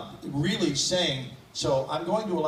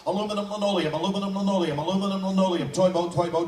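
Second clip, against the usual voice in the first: higher, crisp articulation drills; vocal warm-up drills; 5 semitones higher than usual. Shown as a demonstration. Vocal warm-up in front of the audience. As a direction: snap through each syllable drill. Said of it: "vocal warm-up".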